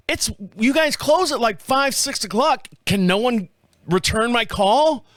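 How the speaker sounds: incredulous scolding of the call-center guy; pissed off. Retold or imitated. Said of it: "Oh, I was pissed".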